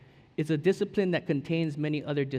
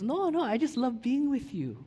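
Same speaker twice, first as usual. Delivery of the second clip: gently voicing God; 7 semitones higher than usual. Voicing God's gentle reply.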